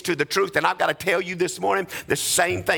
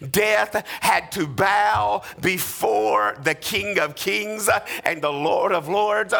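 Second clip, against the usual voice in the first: shouted proclamation; 3 semitones higher, slower than usual. Acted. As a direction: proclaim it at full volume. Shouted climax.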